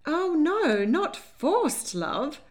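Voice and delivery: high, loud, fluttery protest that fades; crying weakly. A narrator's reading. Lady Hartwood protesting to April, high and feeble. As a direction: wring your hands and plead feebly. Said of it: "Lady Hartwood cried weakly".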